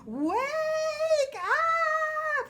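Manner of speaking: shouting wake up. Retold or imitated. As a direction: call it out like a wake-up alarm. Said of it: "I won't yell at the top of my lungs".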